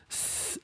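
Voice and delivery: "s" pure hiss, no vowel; voiceless s. Shown as a demonstration. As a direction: hiss only. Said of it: "there's not a vocal sound in the s".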